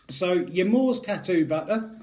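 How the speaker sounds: put-on Scottish accent. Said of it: "I keep breaking into Scottish accent".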